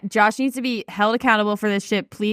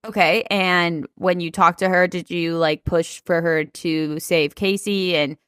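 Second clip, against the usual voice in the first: playing Michelle; 4 semitones lower than usual. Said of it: "you be Michelle".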